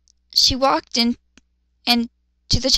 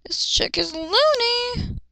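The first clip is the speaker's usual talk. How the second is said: mock scornful; 11 semitones higher, slower than usual. Real, not acted. Mocking the character.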